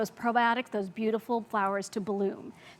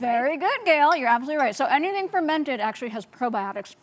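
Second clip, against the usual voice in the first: talking with a mouthful; words round a bite of food; chewing while talking; 2 semitones higher than usual. Real, not acted. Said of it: "Sorry, I'm chewing on my".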